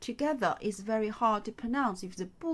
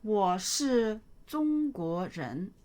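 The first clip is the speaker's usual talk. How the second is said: slow model reading; 4 dB louder, slower than usual. Shown as a demonstration. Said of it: "teacher models sentence slowly".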